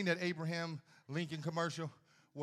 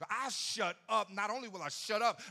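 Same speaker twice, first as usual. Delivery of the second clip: mock defiant vow; 5 semitones higher, 4 dB louder than usual. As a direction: drag it out, stubborn.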